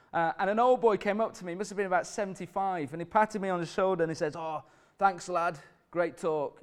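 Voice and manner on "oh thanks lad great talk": lightly voiced old boy, a bit Scottish; slightly Scottish-sounding. Old boy thanking the preacher after his talk, faintly Scottish accent. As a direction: imitate an old man with a faint Scottish lilt. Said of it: "was sounding a bit Scottish".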